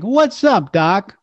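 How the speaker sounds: high, sassy cartoon rabbit line; cocky attitude. Shown as a demonstration. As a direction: toss it off with attitude. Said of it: "have an attitude like".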